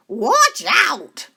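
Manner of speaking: loud, high warning call; sharp warning. Acted. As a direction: cry out to warn them. Eugenia warns.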